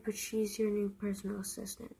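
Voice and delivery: whispered, breaking bad news; soft whisper of bad news to a friend. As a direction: hush it like a secret nobody should hear.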